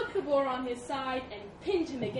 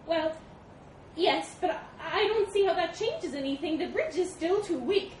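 high, loud monkey voice; hesitant monkey; 8 semitones higher, 6 dB louder than usual. A narrator's reading. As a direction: protest in a high voice, halting at first. Monkey answers elephant.

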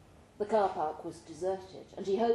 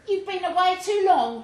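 put-on higher and louder, a young woman full of hope; Michelle's voice; 10 semitones higher, 8 dB louder than usual. Michelle dreaming to Bay about normal life, higher, louder woman's voice.

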